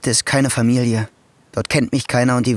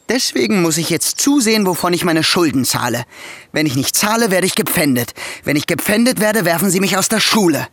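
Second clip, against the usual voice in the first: agitated worry; 5 semitones higher than usual. Acted. Nephew spirals about his debts.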